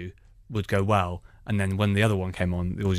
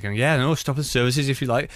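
put-on Welsh accent; 5 semitones higher, 4 dB louder than usual. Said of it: "I spoke in that accent all the way home".

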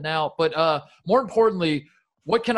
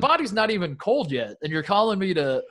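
exasperated complaint; 5 semitones higher than usual. Retold or imitated. Retelling how she protested to John on the phone, higher and exasperated. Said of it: "And I was like".

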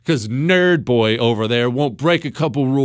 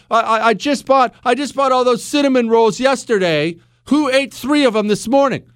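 lightly voiced wife, pitched up; higher, mildly accusing domestic complaint; questioning wife; 9 semitones higher than usual. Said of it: "when the wife comes home and she says".

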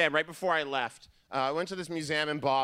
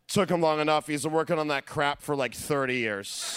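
mom's dry remark; 4 semitones lower than usual. Retold or imitated. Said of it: "without looking up from her People magazine, just went".

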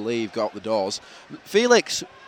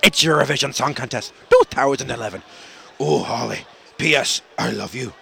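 mock-Irish presenter announcing; Irish television host introducing a big show; Graham Norton; 2 semitones lower, 4 dB louder than usual. Host introducing Eurovision, mock Irish presenter accent. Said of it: "And Graham Norton".

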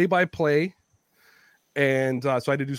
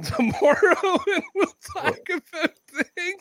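higher-pitched mock boss voice; mimicked boss; 13 semitones higher than usual.

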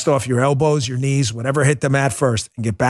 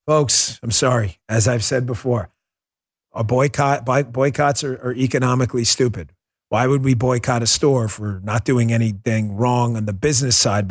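usual speaking voice

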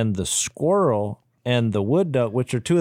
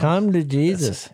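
mock preacher; 4 semitones higher, slower than usual. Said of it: "Al's gonna be preaching".

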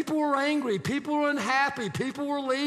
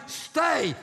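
begging cry; 4 semitones higher than usual. Retold or imitated. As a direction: plead with him to stay, voice raised. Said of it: "begging, crying".

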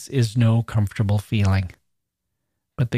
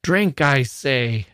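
shouting; 3 semitones higher, much slower than usual. Acted. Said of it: "shouted the monster".

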